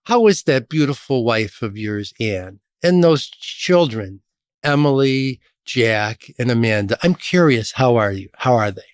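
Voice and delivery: understated mock menace, measured politeness; veiled intimidation. Union boss asks newcomer about his family, understated intimidation. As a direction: lightly imitate a polite threat, lingering over the family. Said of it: "he was trying to intimidate me".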